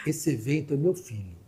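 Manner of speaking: começa contida e sobe até gritar; desabafo indignado. Retold or imitated. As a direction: cresce até o grito no final. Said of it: "ela virou pra ele assim". (funcionária confronta o novo diretor, subindo até gritar)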